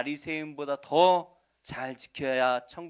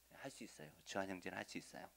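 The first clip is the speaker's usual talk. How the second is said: mock reply; 7 semitones lower, 18 dB quieter, faster than usual. Mock answer for the congregation.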